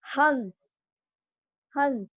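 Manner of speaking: हंस with the vowel sounded through the nose before स; slow nasal हंस for the class; nasal vowel demo. Shown as a demonstration. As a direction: let हंस hum through the nose, teacher style. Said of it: "आपका pronounce होगा हंस".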